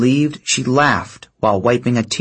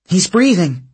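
announcing; 7 semitones higher than usual. A narrator's reading. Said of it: "she announced".

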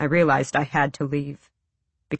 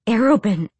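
seething; 5 semitones higher, 4 dB louder than usual. A narrator's reading. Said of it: "she seethed".

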